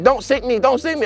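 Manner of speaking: a half-hearted imitation of her panicked yell; retold yelling. The worker yelling at the swimmer, mock panicked yell. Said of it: "she starts yelling at me saying".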